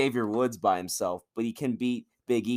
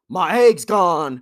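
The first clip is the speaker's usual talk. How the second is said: high, loud, slow mock wail; loud, slow, high mock lament; mock Vince wail; 8 semitones higher, 11 dB louder, much slower than usual. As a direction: drag it out like a distraught boss. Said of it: "Vince McMahon's like".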